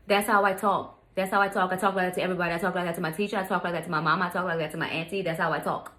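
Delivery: imitated insistent backtalk; mock defiant repetition; worst attitude. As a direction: reel it off defiantly, mimicking attitude. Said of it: "With the worst at".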